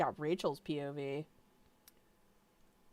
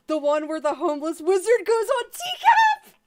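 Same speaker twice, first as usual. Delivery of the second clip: hammed-up title read, much higher and louder; mock announcer; 11 semitones higher, 10 dB louder than usual. Reading a fanfic title to viewers, mock announcer. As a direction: announce the silly episode title like a trailer voice.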